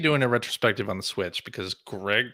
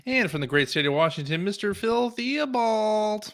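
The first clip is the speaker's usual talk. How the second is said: grand announcer; 8 semitones higher than usual. Acted. Grand podcast introduction.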